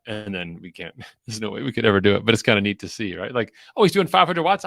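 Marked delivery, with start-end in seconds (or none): 3.8-4.7 high, loud excited viewer; imitating an impressed armchair fan; mock excitement. Imitating viewer watching race at home.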